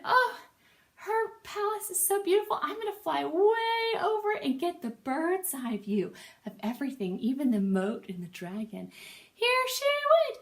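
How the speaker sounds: very high, loud bird chant. Acted. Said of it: "bird voice".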